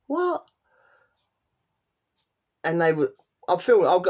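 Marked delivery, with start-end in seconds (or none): 0.1-0.4 surprised what. Retold or imitated. Seeing horses on the cliff.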